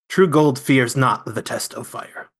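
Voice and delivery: slow, self-mocking Chinese accent; hammy Chinese accent, slow. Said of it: "my horrible Chinese accent".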